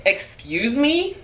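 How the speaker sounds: slow, high incredulous question; mock-affronted, stretched and high; retold incredulity. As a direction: draw it out, rising in disbelief. Retold disbelief at scammers' question.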